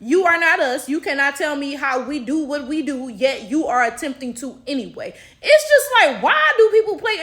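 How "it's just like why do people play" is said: exasperated. Real, not acted. Exasperated rant.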